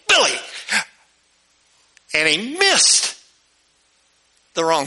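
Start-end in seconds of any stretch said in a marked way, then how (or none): 0.1-0.4 put-on girl yelling. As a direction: yell his name across the barn. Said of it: "and she yells".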